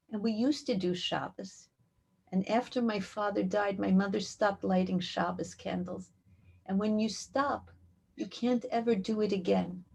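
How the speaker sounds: soft, understated sadness; subdued grief, retold. Little girl tells of her father's death, quietly sad. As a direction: say it simply and quietly, resigned. Bereaved child explains, retold.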